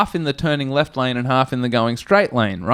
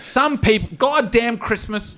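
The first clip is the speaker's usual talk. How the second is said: weary grumble; 7 semitones higher than usual. Retold or imitated. Imitating Ken's weary complaint.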